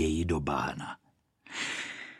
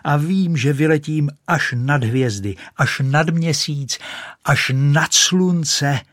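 high, loud rising boast; ecstatic boasting cry; 6 semitones higher, 4 dB louder than usual. Acted. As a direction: soar with your voice to the stars. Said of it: "křičela". (vysoký hlasitý vítězný výkřik)

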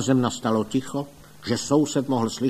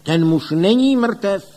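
high, much louder and slow, booming; forceful declaration; 9 semitones higher, 8 dB louder than usual. A narrator's reading. Doctor announcing to the funeral crowd, slow loud proclamation.

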